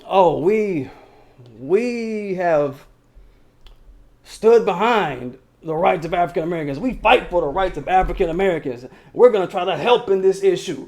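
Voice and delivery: lightly put-on politician voice, mocking; mocking caucus voice.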